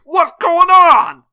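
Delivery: put-on very high, loud, drawn-out old-timer holler; Prospector. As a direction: wail it slowly in bewildered alarm. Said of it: "bring back the Prospector voice".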